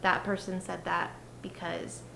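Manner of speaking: hushed, anxious self-talk; whispered inner voice. Acted. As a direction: whisper it like a nagging thought.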